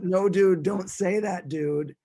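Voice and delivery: mock-scold in a bad Boston accent; Boston metalhead shutting his buddy down; terrible Boston accent. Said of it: "I'm talking in a terrible Boston accent".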